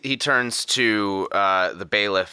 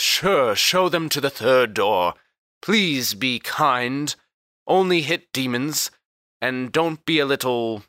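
resigned lord; 4 semitones higher than usual. Acted. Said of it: "Karfwad says".

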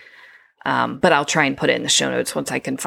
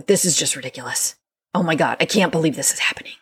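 exasperated outburst; faster than usual. Shown as a demonstration.

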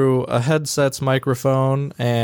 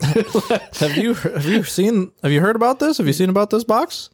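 excited; 9 semitones higher than usual. Acted. Hyped about the box.

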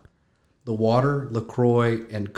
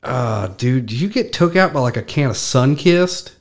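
teasing; 3 semitones higher, 5 dB louder than usual. Retold or imitated. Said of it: "somebody I knew would be like".

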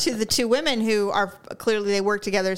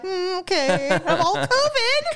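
retold dismay; 9 semitones higher, slower than usual. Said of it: "I'm like".

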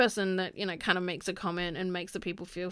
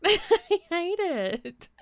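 laughing disgust; 8 semitones higher, 4 dB louder, much slower than usual. Real, not acted.

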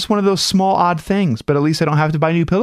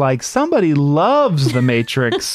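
teasing. Real, not acted. Host repeating the Matrix tease over co-host's denial, teasing. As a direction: keep needling over the protest.

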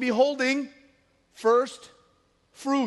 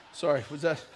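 laughing apology; 8 semitones lower, 6 dB quieter than usual. Real, not acted. Laughs at his own misread.

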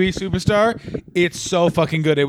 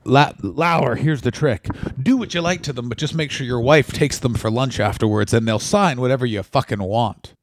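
mock Vince; 3 semitones lower than usual. Vince advising Matt Lauer.

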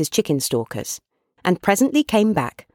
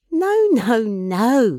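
higher-pitched voice of a fussing daughter; lightly voiced young woman, kindly refusing; Meg, gently insisting; 6 semitones higher, much slower than usual. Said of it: "said Meg".

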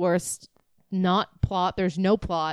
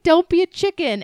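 mock movie line; 10 semitones higher, 4 dB louder than usual. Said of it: "He's like".

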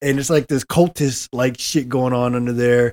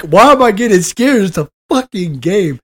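mock exasperation; 5 semitones higher, 4 dB louder than usual. Voicing a scared player scolding himself.

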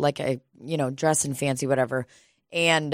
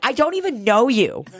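put-on high, louder childish brush-off; mock kid voice; 8 semitones higher, 4 dB louder than usual. Speaker mimicking the kid's brush-off back at him, high mock kid voice. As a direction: throw the kid's line back in his voice.

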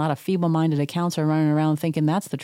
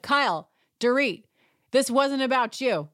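yelling at the screen; 7 semitones higher than usual. Real, not acted. Shouting at the TV.

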